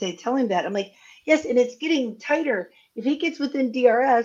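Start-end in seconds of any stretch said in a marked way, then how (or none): 1.3-4.2 mock frantic, worked-up, excited cheering and yelling. Recounting watching a race beside a partner, retelling own yelling. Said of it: "this is where I started yelling".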